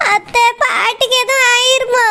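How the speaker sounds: slow, tearful question through sobs; crying child. Acted. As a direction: ask it while crying, slowly. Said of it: "நீ அழாத பிள்ளை".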